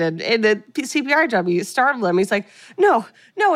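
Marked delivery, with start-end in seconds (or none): 2.8-3.5 high, loud no no; desperate protest. Retold or imitated. Teen protesting to the teachers, high and loud. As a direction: cry out against the adults.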